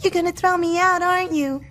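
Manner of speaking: tearful. Acted. Girl expects to be thrown out.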